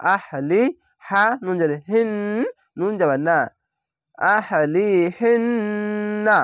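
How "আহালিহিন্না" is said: very slow আহালিহিন্না with a long held nasal ন্ন; nasal ghunna. Shown as a demonstration. Teacher shows the obligatory ghunna on আহালিহিন্না. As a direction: hum through the ন্ন of আহালিহিন্না slowly. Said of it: "এখানে ওয়াজিব গুন্না".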